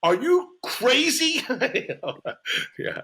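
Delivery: imitating his wife in a high witch voice. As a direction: whine it like a cackling witch. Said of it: "a witch voice".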